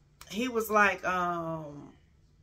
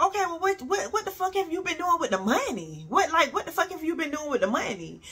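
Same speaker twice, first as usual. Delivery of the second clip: much higher, exasperated demand; retold angry demand; 8 semitones higher than usual. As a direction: throw the question at him, high and pressing. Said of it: "So I'm like".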